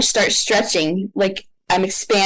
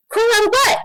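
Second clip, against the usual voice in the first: startled, much higher crawl out of what; baffled high question; 13 semitones higher than usual. Retold or imitated. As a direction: pitch jumps high in disbelief. Confused reply to voice.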